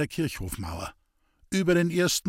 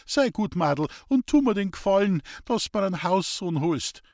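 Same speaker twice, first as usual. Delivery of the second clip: coaxing "sei gut, Madl", higher and pleading; soothing; 7 semitones higher than usual. Acted. Old man coaxes the maid to fetch his son, placating. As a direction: win her over kindly with "sei gut". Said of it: "beschwichtigte Hans-Peter".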